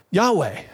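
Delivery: Yahweh voiced as English YAH-way; Yahweh in everyday English, falling at the end; English pronunciation. Shown as a demonstration. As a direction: say "Yahweh" clearly, two voiced syllables. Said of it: "we go ahead in English and pronounce it".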